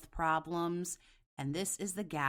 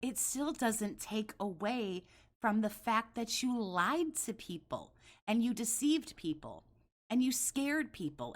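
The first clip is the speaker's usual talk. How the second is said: high, heated, accusing rant; wild unhinged ranting; 5 semitones higher than usual. Real, not acted. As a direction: lay into him, voice up. Escalating rant, higher pitch.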